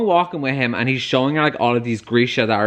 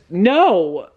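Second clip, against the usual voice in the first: dismayed cry; 5 semitones higher, 4 dB louder than usual. Real, not acted. Reacts to betrayal.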